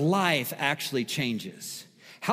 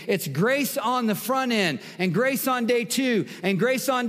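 higher-pitched, driving sermon delivery; fervent preaching; 5 semitones higher than usual. Real, not acted. Preacher telling congregation grace empowers change, fervent preaching. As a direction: press each phrase onward with conviction.

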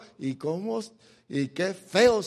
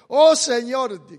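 drawn-out plea; 4 semitones higher, 9 dB louder, much slower than usual. Acted. Voicing Jacob's anguished prayer.

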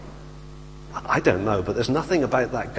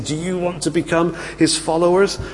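cocky taunt; 4 semitones higher than usual. Retold or imitated. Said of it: "puffed out his chest and he's poking these authority".

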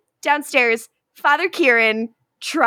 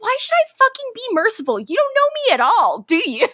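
Klaus quote; 9 semitones higher, faster than usual. Retold or imitated. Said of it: "Klaus is like".

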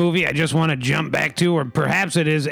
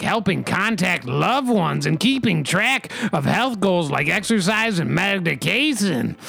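mock news read; 3 semitones higher than usual. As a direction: read it like a TV anchor delivering a story. Reads a news item aloud.

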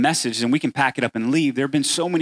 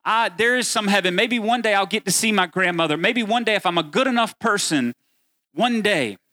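wistful hoping; 6 semitones higher than usual. Retold or imitated. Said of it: "that's how you've thought about God".

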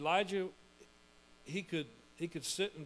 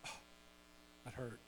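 hurt; 6 semitones lower, 14 dB quieter than usual. Retold or imitated. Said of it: "Christian goes like".

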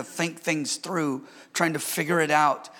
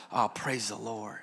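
softer, murmured praise to the Lord; quiet retold praise; 8 semitones lower, 10 dB quieter than usual. Pastor retelling his kitchen praise, soft murmur. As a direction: let it slip out under your breath.

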